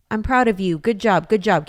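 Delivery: loud, high, gushing parent praise; over-the-top praise. Retold or imitated. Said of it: "you should not say, like".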